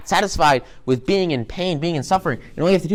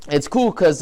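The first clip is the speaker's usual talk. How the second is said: ordinary talk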